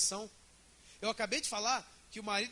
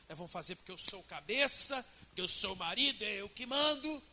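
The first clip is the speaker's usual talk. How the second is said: bossy husband. Acted. Acted husband pulls rank on wife, domineering. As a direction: assert authority, rising towards the end.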